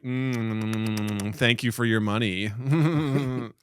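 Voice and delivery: slow, lazy, sassy animal voice; sassy zoo animal. Retold or imitated. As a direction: play the bored animal taking the money, unimpressed. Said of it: "they're just always sassy".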